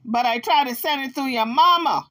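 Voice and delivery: lightly voiced Jaguar making excuses; imitating Jaguar's excuse. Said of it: "So Jaguar said".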